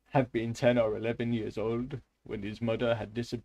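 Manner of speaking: put-on careful, wobbly Russian accent; attempted Russian accent. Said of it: "Or is this Indian?".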